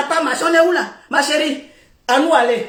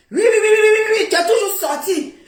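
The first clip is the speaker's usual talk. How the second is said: high, laughing repeated oui; mock him through laughter; laughing mockery; 6 semitones higher, faster than usual. Real, not acted. Teasing a rival live, laughing. Mocking the other's words, laughing.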